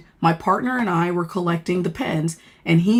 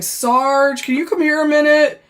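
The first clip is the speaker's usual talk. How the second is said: higher, singled-out summons; imitated calling over; 7 semitones higher than usual. Officers calling the sergeant during a search, raised calling voice. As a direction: call a colleague over.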